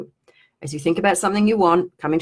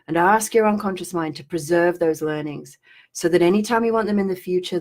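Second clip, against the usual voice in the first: trancey guidance. Acted. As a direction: lull them into noticing the feeling. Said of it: "weird trancey stuff".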